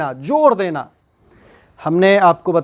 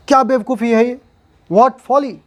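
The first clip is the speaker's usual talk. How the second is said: higher, mock disbelief at the foolishness; exasperated exclamation; 5 semitones higher than usual. Shown as a demonstration. Teacher to students, acting out a mocking exclamation. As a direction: scold it lightly, as if amazed. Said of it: "ये आश्चर्य दिखा रहा है".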